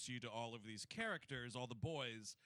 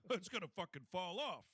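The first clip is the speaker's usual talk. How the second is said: a lightly voiced brash comic, through a laugh; Rodney Dangerfield impression. Comic teacher warning the boys, light impression. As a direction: crack the joke like a sleazy old comic. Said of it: "Rodney should definitely have been in this movie".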